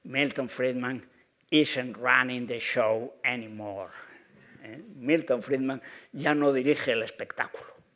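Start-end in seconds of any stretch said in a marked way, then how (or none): 0.1-3.9 put-on, native-sounding English accent. Quoting the president's phrase in English, put-on English accent. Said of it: "permítanme que se la diga en inglés y con acento porque hay que decirlo así".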